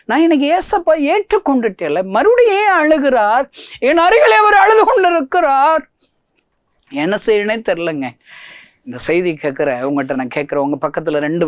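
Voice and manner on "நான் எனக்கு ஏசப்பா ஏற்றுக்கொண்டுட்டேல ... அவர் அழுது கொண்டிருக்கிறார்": high, loud crying-out sermon voice; full-force preaching. Acted. Preacher asking the congregation why Jesus still weeps, full-force preaching. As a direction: wail it from the pulpit.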